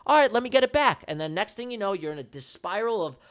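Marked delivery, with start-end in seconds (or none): 0.1-1.1 emotional trader. Acted. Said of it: "You're gonna be like".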